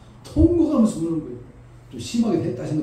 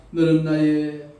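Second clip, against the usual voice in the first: voice of God; 2 semitones lower than usual. Acted. God speaking to the mourners, slow and solemn. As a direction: speak as God, calm and weighty. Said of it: "하나님은 뭐랍니까".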